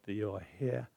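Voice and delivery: soft, hushed inner prayer; gentle whispered-down thanks; quiet prayer. Shown as a demonstration. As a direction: pray it under your breath. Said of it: "in your heart, say".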